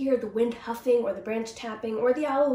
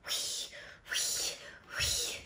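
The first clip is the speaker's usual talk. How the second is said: snoring; 11 dB quieter, much slower than usual. A narrator's reading. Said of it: "he heard".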